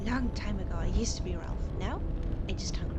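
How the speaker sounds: hungry creature voice. Acted. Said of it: "I don't know why I'm saying it like that".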